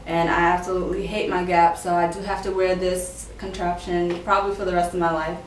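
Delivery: slightly lisped speech through a retainer; words shaped around a retainer; talking with retainer. Real, not acted. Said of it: "I have this retainer in".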